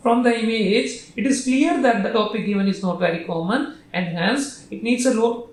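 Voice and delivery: measured, slow phrasing with a pause after "hence"; model intonation. Shown as a demonstration. Teacher showing how he would say it, slow model intonation. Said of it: "मैं ऐसे बोलूंगा".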